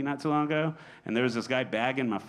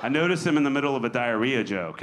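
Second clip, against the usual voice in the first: usual speaking voice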